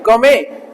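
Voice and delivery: गौ में ending on an open vowel, no T; silent T. Shown as a demonstration. Teacher repeats for the class, गौ में with silent T. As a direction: drop the final T in गौ में. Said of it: "टी silent है यहाँ पे".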